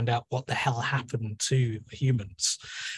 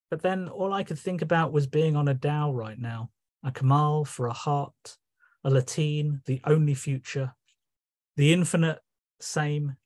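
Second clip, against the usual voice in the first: measured recital with a bright, questioning start; poetry reading. Acted. Poet reciting a lockdown poem to listeners, measured recital. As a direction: read it as a teasing address.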